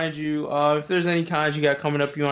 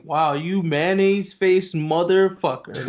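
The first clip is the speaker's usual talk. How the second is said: drawn-out insult; slower than usual. Shown as a demonstration. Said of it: "Like that".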